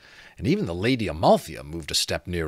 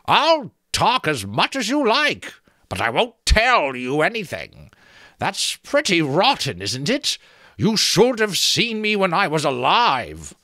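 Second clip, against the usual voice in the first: creaking skull voice; 11 semitones higher, 6 dB louder than usual. A narrator's reading. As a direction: creak out the offer like a teasing sentry. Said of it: "sounded like branches creaking".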